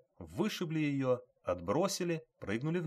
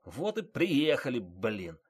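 wounded yelling; 2 semitones higher, slower than usual. A narrator's reading. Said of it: "орал раненый водитель".

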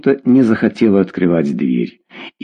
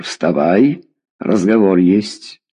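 stern father; 2 semitones lower, slower than usual. Acted. Father ordering daughter up for a talk, stern.

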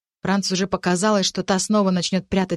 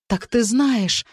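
slow, higher, wondering; surprised; 5 semitones higher, 3 dB louder, much slower than usual. Acted. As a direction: let the realization dawn slowly. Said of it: "удивилась Франц".

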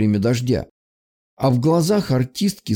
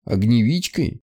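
tense voice. Acted. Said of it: "странно напряжённым голосом".

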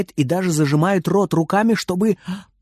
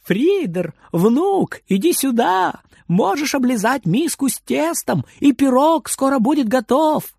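calling out; 9 semitones higher than usual. Acted. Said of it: "Она зовёт".

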